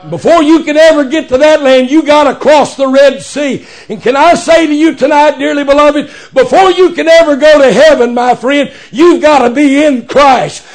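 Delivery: rising, rhythmic revival preaching; fervent pulpit climax, last words stretched; full-force preaching. Real, not acted. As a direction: build steadily to a long-drawn cry.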